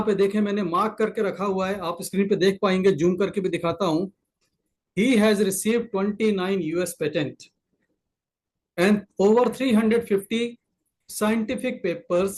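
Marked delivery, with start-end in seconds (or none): 5.0-12.3 slow, measured reading of credentials; slow emphatic reading; slow reading aloud. Shown as a demonstration. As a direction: read the honours slowly off the screen. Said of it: "reading credentials from screen slowly".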